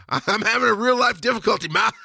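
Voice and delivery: high mock complaint to mom; exasperated son. Son telling mom of real-life trouble, mock exasperation. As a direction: plead loudly, half joking. Acted protest to mother, laughing.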